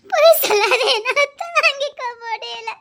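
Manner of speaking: tearful pleading, voice cracking; sobbing. Acted. Wife breaks down, accuses husband. (அழுதுகொண்டே கெஞ்சுதல்)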